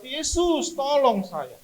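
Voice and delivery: high, loud drawn-out cry; shouting. Retold or imitated. Patient in pain all night shouts to Jesus. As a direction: wail loudly for help. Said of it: "Sampai saya teriak".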